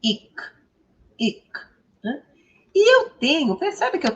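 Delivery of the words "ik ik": "Ik" with short i, not the letters E and X; isolated teacher's "Ik"; pronunciation demo. Shown as a demonstration. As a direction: model "Ik" as one brief syllable ending in k. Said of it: "como eu devo pronunciar".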